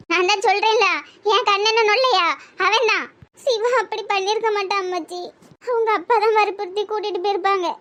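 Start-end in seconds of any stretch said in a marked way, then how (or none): 3.4-7.7 mild tearful pleading. Acted. Girl defending her lover to grandmother, tearful. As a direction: defend him through held-back tears. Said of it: "அழுவாதடி".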